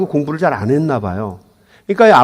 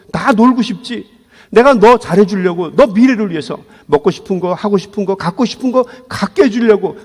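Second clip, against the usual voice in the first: a father's pained, rising plea; pleading father; 3 semitones higher than usual. Retold or imitated. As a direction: plead with the son, hurt and higher.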